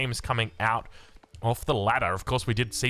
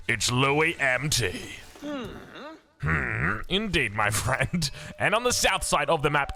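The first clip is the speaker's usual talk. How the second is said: esports caster intro; 3 semitones higher than usual. Acted. Caster welcoming viewers to a casted game, announcer style. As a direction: announce the players with showy, stretched-out flourishes.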